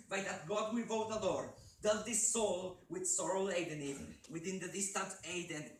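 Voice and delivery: high, loud, desperate plea; pleading shout. Acted. Grieving man begging the raven, loud and high. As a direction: beg the prophet with full force. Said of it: "I shriek".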